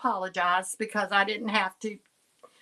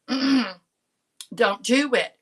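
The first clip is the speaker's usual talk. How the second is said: very slow, drawn-out and firm; deliberate warning; 3 dB louder, much slower than usual. Retold or imitated. Warning herself as she stands up, a very slow firm warning. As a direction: stretch every word like a last warning. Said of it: "And so I said".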